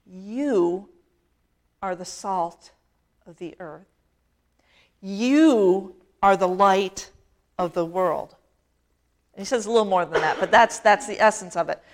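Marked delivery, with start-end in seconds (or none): 0.1-8.4 slow, hushed, lightly voiced Jesus; solemn Jesus.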